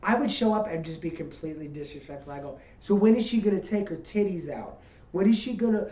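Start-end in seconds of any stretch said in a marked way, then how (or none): 2.8-5.9 put-on heckling in a Brooklyn accent; rough New York heckler. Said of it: "I'm talking like I'm from Brooklyn".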